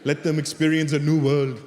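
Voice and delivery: put-on earnest immigrant parent with an Indian accent; Indian-accented parent listing hopes. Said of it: "'cause they'll do this".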